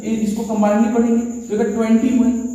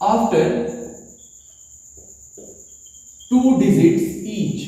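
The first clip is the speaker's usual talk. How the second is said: slow dictation; much slower than usual. Shown as a demonstration. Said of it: "teacher dictating the rule".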